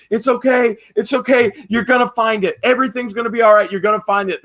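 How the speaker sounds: mock soothing lady; imitated reassurance. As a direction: talk someone down with repeated assurances. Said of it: "trying to calm him down".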